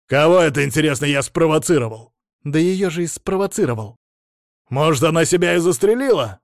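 loud scornful shouting challenge; angry retort. A narrator's reading. Patient yelling at the therapist in the quarrel, loud. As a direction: demand an answer, furious.

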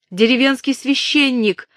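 high, loud call upward; urgent call. A narrator's reading. Catherine shouts up to the man at the window, high and loud. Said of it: "крикнула она человеку в окне".

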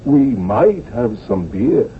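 meek, timid request; apologetic tone. Retold or imitated. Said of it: "That apologetic tone".

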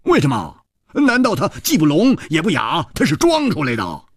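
high, pressing questions; animated doubting adventurer; incredulous Hu Tiehua. Acted. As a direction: challenge it in an excitable high voice.

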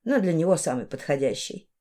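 quietly pleased with justice done; satisfied. A narrator's reading. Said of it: "удовлетворённо сказала она".

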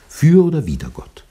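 high, loud, preaching peak; emphatic cry. Acted. Pastor demanding a decision for God, loud and preaching. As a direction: ring it out like a pulpit call.

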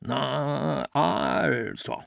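lightly voiced stern father, stretched A, clipped-off O; gently mimicking his father's satisfied verdict. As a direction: drawl the A long and snap the O short, a hint of a stern father. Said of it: "las mit der Stimme seines Vaters".

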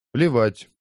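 a dismissive parry; retort. Acted. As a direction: brush them off. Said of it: "парировала Лиза".

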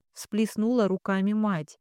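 plain reading voice

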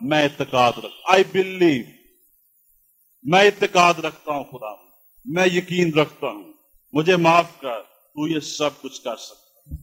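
subdued, contrite admission of faith; remorseful confession. Acted. Preacher as the father admitting his mistake to Jesus, mild remorse. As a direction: confess it humbly, with a touch of shame. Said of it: "اس نے ندامت سے کہا".

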